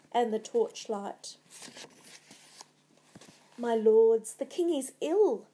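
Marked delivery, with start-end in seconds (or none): 3.6-5.5 desperate. A narrator's reading. Lady Macbeth pleading with the nobles, desperate. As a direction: call out urgently to cover a crisis. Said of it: "said desperately".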